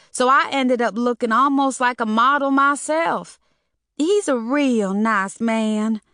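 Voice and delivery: put-on an eager girl spilling the tea; young woman voice. A narrator's reading. Mona's voice in dialogue.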